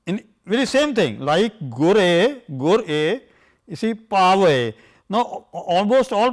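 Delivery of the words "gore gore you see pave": gore, pave with vowels drawn out; careful Gurbani pronunciation; recited vowel pattern. Shown as a demonstration. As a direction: sound each vowel slowly. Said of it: "exactly the same as that of gore".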